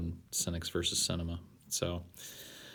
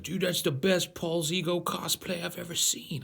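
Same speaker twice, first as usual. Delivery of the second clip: much higher, fan gushing; excited fan voice; 11 semitones higher than usual. Pretend. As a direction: gush like a starstruck fan. Imagined fan at a convention.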